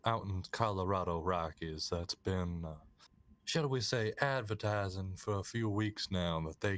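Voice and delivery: game master setting the scene in mild Southern; Southern accent. Acted. Game master describing Clifton to players, Southern accent. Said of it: "multiple of us talking in Southern accent".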